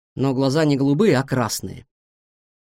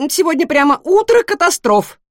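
high, loud, rapid-fire questions; a nosy little pig who can't stop asking; chatty guinea pig; 12 semitones higher, 6 dB louder than usual. A narrator's reading. Guinea pig pestering the new cat with questions.

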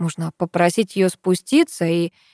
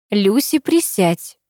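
gentle request; slower than usual. A narrator's reading. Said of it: "просит мама".

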